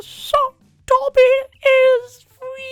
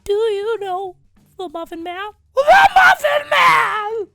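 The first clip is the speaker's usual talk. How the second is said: high squeaky cookie shriek; Gingy voice; 9 dB louder, slower than usual. Retold or imitated. Gingerbread man.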